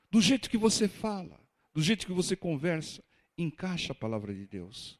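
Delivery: usual speaking voice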